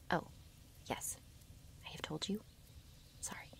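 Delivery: quietly sheepish, almost whispering by the end; sheepish apology. Acted. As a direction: shrink into a small, hushed apology. Wolf apologises for forgetting.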